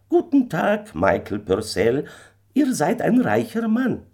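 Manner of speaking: high, loud little stranger's farewell; kleiner Fremder. A narrator's reading. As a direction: bid farewell as the uncanny little man. Little stranger takes his leave. (kleiner Fremder mit hoher, lauter Stimme)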